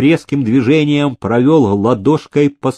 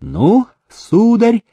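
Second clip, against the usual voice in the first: much higher, slow and grand; solemn proclamation; 10 semitones higher, slower than usual. Acted. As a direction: announce it like a ceremony. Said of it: "торжественно провозгласил он".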